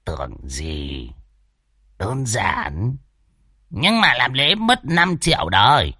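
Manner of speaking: milk the scared host for money, smugly; sly old swindler. Acted. Old Đồng quotes a price. (giọng lão già tham lam, đắc ý)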